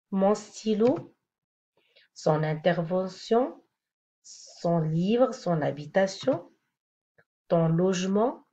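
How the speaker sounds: « mon stylo » lent, sans liaison; détacher « mon stylo » lentement; slow example. Shown as a demonstration. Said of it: "On va voir quelques exemples". (exemple lent « mon stylo »)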